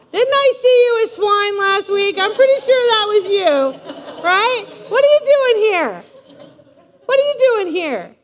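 high, loud mock interrogation; accusing. Churchgoer confronting someone back from the swine pit, accusing. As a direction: play a nosy, judgmental churchgoer. Acting judgmental churchgoers accosting returnee.

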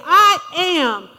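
bold declaration. Shown as a demonstration. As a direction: declare it boldly against the enemy. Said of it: "get on the attack and say".

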